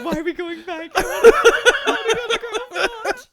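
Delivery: put-on mad kid. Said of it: "he was so mad".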